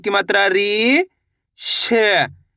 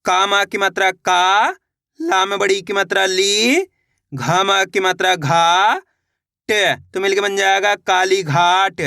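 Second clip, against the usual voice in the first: slow spelling out. Shown as a demonstration. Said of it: "देखिए किस तरीके से है।".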